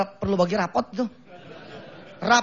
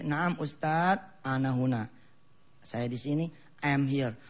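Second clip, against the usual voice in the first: put-on child answering; 7 semitones lower, 7 dB quieter, slower than usual. Child answers teacher before parents.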